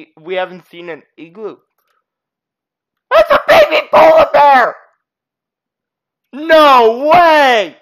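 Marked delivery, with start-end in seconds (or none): 3.1-7.8 amazed, raised-pitch exclamation; excited discovery. Real, not acted. Player spotting a baby polar bear, excited discovery. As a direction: burst out in delighted disbelief.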